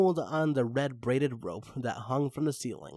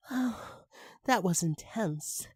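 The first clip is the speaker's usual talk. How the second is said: exclaiming; 5 semitones higher, 4 dB quieter than usual. Acted. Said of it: "she exclaimed".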